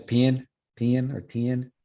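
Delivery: pin with a gliding vowel; Texas merged vowel. Shown as a demonstration. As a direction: stretch pin and ten into two sounds. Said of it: "vowel differences in Texas English".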